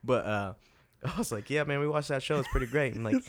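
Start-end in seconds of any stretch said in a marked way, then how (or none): 1.5-2.9 a friendly, lightly put-on British accent. Host retelling mimicking a British accent to his friend, light. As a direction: do a passable British impression for a Brit. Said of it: "I love doing British accents to him".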